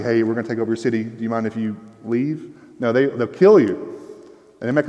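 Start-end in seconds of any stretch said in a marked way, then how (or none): 0.0-2.6 mock polite. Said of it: "They wouldn't say nicely".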